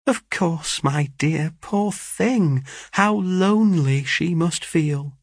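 high, tender pitying voice; a touch of fond compassion; motherly sympathy. Acted. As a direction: coo with pity, lingering at the end. Mother pities the lonely newcomer.

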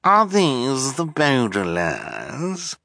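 high, drawn-out astonished question; affected villainess voice, amazed. A narrator's reading. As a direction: ask it in slow, high-pitched disbelief. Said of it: "she asked in astonishment".

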